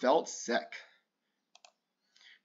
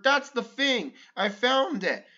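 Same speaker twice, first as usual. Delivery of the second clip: excited; 7 semitones higher than usual. Acted. Excited discovery.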